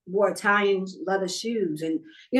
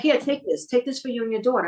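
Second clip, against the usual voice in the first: pushy insistence; 3 semitones higher than usual. Retold or imitated. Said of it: "She was pushy".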